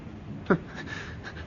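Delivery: low-key breathy chuckle. Acted. Nephew realising why grandfather scolded him, breathy chuckle. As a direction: chuckle to yourself as it dawns. Amused realisation about the inheritance.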